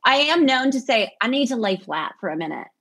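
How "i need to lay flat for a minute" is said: light Southern lilt, a little quick; Southern accent. Acted. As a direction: softly put on a touch of Southern. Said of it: "That's very Southern".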